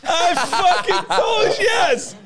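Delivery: high, loud gloating yell; triumphant shout. Real, not acted. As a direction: crow with laughing triumph. Triumphant after being proven right.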